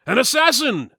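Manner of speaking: high, loud alarmed cry; startled alarm. Acted. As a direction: shout the danger as it appears. Sudden arrow strikes goblin.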